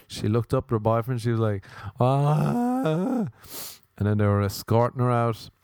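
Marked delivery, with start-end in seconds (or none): 2.0-3.3 imitated high "ah" of a toppling drunk; mock drunken wail. Drunk heckler looking up at her boyfriend, mock wail.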